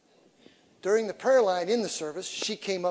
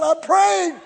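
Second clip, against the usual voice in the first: high, loud laughing retort; mock frantic shout; laughing yell; 11 semitones higher, 10 dB louder than usual. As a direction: yell back, half laughing. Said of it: "I said".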